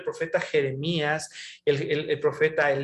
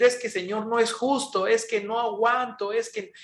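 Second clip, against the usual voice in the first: mock complaint to God; 5 semitones higher than usual. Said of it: "gritarle a Dios y decir".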